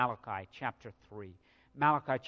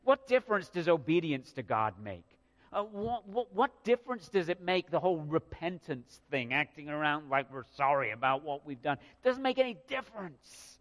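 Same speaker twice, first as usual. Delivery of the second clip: mild mock complaint. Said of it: "so they're saying".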